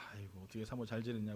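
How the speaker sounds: soft, low retold phone greeting; retold kindly greeting. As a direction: lightly imitate a pastor being kind on the phone. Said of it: "아주 상냥하게 목사님이 통화를 하시죠".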